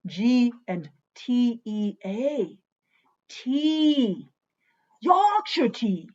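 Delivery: playful faux Yorkshire reveal; Yorkshire accent. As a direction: proudly unveil it in a put-on Yorkshire voice. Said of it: "I'm gonna quit, like, doing that".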